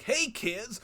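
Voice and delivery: lightly voiced sad clown greeting; a hint of a dazed, sad clown; sad confused clown. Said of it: "Just imagine a clown, but instead of funny, just you're sad and confused".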